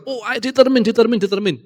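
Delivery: mock determination. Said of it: "Awalnya di gereja kita".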